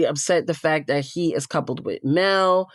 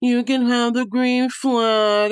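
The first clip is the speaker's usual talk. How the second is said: higher, slow, drawn-out mock voice; slow, higher imitation of her; condescending permission; 6 semitones higher, slower than usual. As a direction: mimic a smug, grudging allowance. Mimicking Kenzie granting permission.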